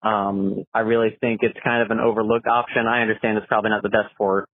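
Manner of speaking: phone message playback; recorded caller on the line; voicemail. Real, not acted. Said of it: "let's see what Matt has to say".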